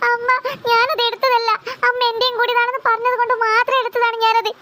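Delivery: whimpered self-defence; tearful pleading. Acted. Child explains herself to mother, tearful. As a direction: plead innocence through sobs.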